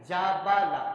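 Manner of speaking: جا با لا each vowel kept short; crisp short fathas on جا با لا; short syllables. Shown as a demonstration. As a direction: recitation demo, short vowels. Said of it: "اس کی ادائیگی یہ ہے".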